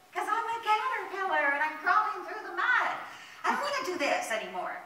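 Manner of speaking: high, loud storybook wail; mock crying. Unhappy caterpillar complains to the fairy, mock crying. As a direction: bawl it out in hammed-up misery. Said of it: "why are you crying".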